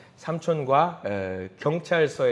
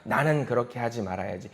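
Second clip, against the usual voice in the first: reluctant backtracking; 5 semitones lower, 7 dB quieter than usual. Acted. Acting out owners backing out of promise.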